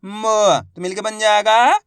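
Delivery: slow, loud spelling chant with stretched syllables; letter-by-letter reading. Shown as a demonstration. Teacher modelling word-building for pupils, letter by letter. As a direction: sound out each syllable, pause, then blend loudly. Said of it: "अपन एक एक करके शब्दों को पढ़ेंगे".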